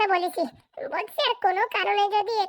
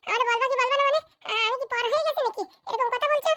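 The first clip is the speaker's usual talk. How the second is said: higher-pitched, affronted questioning; indignant; 4 semitones higher than usual. Acted. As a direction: throw the words back, offended. Offended at being kept out.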